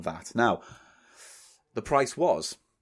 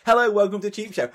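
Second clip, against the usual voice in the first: mock sad host; 8 semitones higher than usual. Mocking a lonely host alone in a dark room. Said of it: "me sitting in a dark room going".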